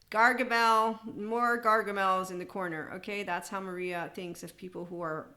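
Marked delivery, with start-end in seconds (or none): 0.1-2.9 loud playful call of "Gargamel"; mocking shout at a grump in a corner. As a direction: announce the villain with a loud teasing shout. Calling out boring people.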